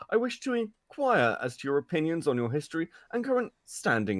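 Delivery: lightly posh British reading; posh British accent. Pretend. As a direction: read it like a posh British gent. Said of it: "I need a posh British man to read it".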